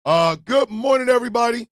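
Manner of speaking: big hearty hello to viewers; loud greeting. Real, not acted. Host shouting good morning to his viewers, loud.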